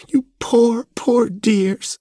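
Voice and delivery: very high, airy, pitying coo; sympathetic cry. A narrator's reading. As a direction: lament over the dogs with gushing sympathy. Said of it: "she cried sympathetically".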